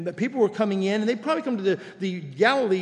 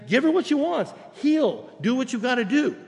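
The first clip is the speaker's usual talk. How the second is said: higher, pleading and fed up; exasperated plea; 6 semitones higher than usual. Retold or imitated. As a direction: beg him to just heal her. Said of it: "they weren't saying".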